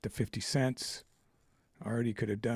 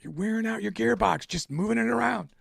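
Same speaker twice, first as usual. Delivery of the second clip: high, louder mock Swedish accent, lecturing; 11 semitones higher, 6 dB louder than usual. Swedish buyer lecturing about his gearbox, high Swedish accent. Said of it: "It's like".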